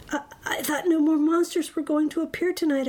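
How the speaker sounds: high, stammering surprise; lightly acted scared kid; nervous child. Child startled by another monster.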